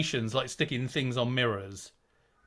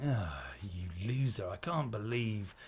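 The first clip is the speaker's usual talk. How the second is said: whispered sneer of an inner critic, low; mock self-scolding whisper; 4 semitones lower than usual. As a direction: hiss the insult to yourself. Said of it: "talking to yourself, going".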